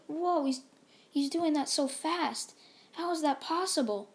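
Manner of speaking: awed onlookers; amazed. Retold or imitated. The crowd watches Deku fight Frieza, amazed.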